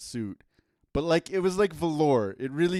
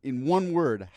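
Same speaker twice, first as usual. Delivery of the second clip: boxing ring announcer; 6 dB louder than usual. Acted. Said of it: "ring announcer voice".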